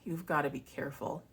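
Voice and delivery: a hint of ominous ex-partner, hushed; quiet warning. Ex-partner warning her before the trip, quietly. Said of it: "he just gets all quiet".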